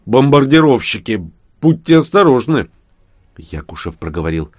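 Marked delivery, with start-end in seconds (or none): 0.0-2.7 warning shout. Acted. Warning shout about birds.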